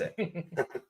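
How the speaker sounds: quiet demonstrated chuckle; soft laugh at something ridiculous; dismissive laugh. Shown as a demonstration. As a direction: chuckle as if it's too stupid to answer. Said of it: "that just laugh of".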